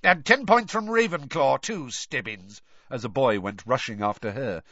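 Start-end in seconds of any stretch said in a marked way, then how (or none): 0.0-2.6 snarled. A narrator's reading. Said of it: "Snape snarled".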